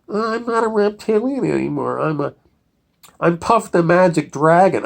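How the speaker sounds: high-pitched, mock-sweet creature voice; soft reptilian impression. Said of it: "then he goes all soft".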